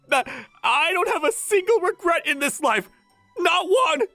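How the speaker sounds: stammered, rising declaration of bliss; overcome with joy. Acted. Fan after idol's homemade breakfast, blissfully overwhelmed. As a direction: proclaim it high, in rapture.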